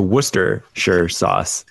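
"Worcestershire" as WUSS-ter-sher; smushed down. Shown as a demonstration. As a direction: squash "Worcestershire" into three syllables. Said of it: "smush down into".

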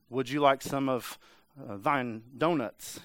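halting, slow attempt at archaic chat; half-hearted parody of stately speech; mock old-English talk. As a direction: fumble politely through King James small talk. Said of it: "talking to me over the donuts".

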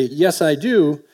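drawn-out, measured yes I do; slow teasing answer; slow deliberate yes. Acted. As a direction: stretch it out like a coy shopkeeper. Shopkeeper answers customer in store analogy.

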